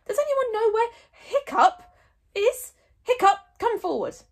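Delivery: high loud summons; calling out. Acted. Chief Stoic summoning his son before the tribe, loud. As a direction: boom it across the crowd.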